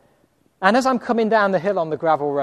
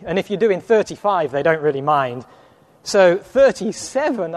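put-on English accent. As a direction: play the Englishman to talk your way out of the ticket. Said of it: "So I tried the English accent".

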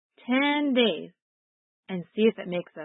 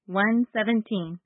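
put-on slow, gentle verse reference for kids; sweet patient sunday school; 2 semitones higher, 3 dB louder, slower than usual. Shown as a demonstration. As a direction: lead it slowly and kindly. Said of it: "Let's try it together".

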